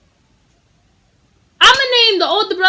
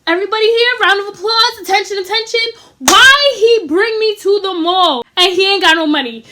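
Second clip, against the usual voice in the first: raised voice, calling the room; loud announcement; 4 semitones higher, 3 dB louder than usual. Retold or imitated. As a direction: announce it to everyone.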